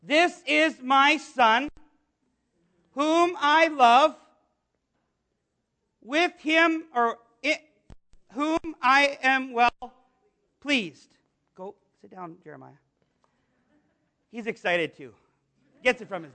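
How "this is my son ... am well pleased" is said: slow, measured declaration; a hint of God proclaiming; lightly voiced God. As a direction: declare it slowly, with space between phrases. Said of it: "what did God say?".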